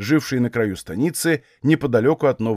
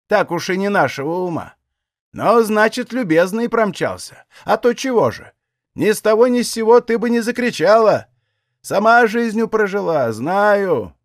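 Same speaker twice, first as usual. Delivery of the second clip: put-on vexed old woman, higher, scolding lightly; annoyed old aunt; 7 semitones higher than usual. A narrator's reading. Old aunt chides Aksinya, slightly annoyed. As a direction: brush off the girl's fear with mild scorn. Aunt's knowing reply.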